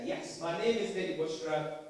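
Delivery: put-on "my name is Lady Bushra" in a light Bradford-girl accent; a touch of the Bradford character; Bradford persona voice. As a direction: introduce yourself as the Bradford teen. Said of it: "the actual way that I talk is like this".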